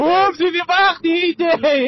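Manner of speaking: excited cheer. Real, not acted. Rider cheering as his friend overtakes, excited. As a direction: shout it out in delight, stretching the words.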